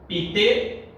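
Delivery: long pauses between each syllable. Shown as a demonstration. Teacher separates a tricky word for class, syllable by syllable. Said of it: "Então vai ficar assim".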